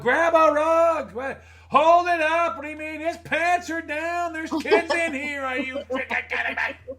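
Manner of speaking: high, loud disbelief, slowing on key words; incredulous. Retold or imitated. Managers reacting in disbelief, high and loud. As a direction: sound shocked and outraged. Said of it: "They're like".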